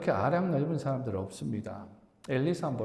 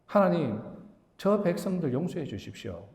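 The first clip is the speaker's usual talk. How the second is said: higher-pitched plea to God, retold; acted-out prayer; 5 semitones higher than usual. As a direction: imitate a leader praying for his people. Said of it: "기도하죠". (백성을 위해 간청하는 기도 흉내)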